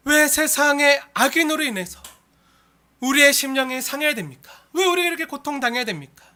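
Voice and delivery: acted lament, pressing questions; tearful lament. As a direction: plead as if wronged, without real tears. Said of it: "그렇게 눈물을 흘릴 때". (눈물로 탄원하듯)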